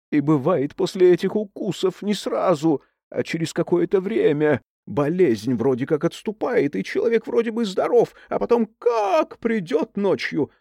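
spooky storytelling. Acted. Scary story told to girls.

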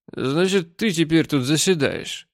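slurring a little; tipsy, swaying speech; drunk voice. Acted. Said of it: "таким же пьяным голосом".

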